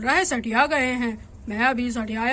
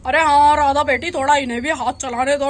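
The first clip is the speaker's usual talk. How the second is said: loud teasing call; 2 semitones higher, 6 dB louder than usual. Acted. Teasing wife while she cooks.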